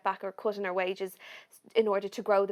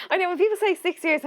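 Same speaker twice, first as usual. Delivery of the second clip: much higher, louder laughing line; still laughing; 10 semitones higher, 8 dB louder than usual. Real, not acted. Telling the host about six years, still laughing. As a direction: talk through the laughter.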